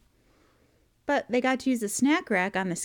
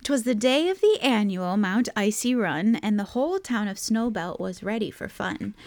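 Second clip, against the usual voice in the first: rhyming storybook read-aloud; picture-book narration. A narrator's reading. Parent opens a Christmas picture book, story narration. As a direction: read the verse in a bouncy story rhythm.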